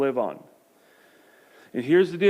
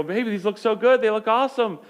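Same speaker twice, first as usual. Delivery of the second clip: higher, bright-eyed enthusiasm; eager praise; 6 semitones higher than usual. Retold or imitated. Husband to wife over her felt crafts, gushing higher. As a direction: gush over the decorations to please her.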